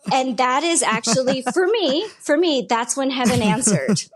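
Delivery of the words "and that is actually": usual speaking voice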